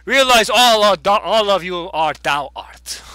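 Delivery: put-on loud, grand old prophet proclaiming; old hobo prophet. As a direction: boom it out like a crazed oracle. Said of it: "he's like".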